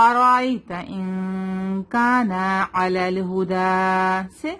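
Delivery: slow measured tajweed recitation; teacher's model recitation; Quranic recitation. Shown as a demonstration. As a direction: recite it slowly, drawing out the vowels.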